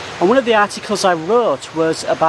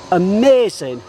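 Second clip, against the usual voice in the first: excited; 2 semitones higher than usual. Real, not acted. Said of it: "but I'm so excited".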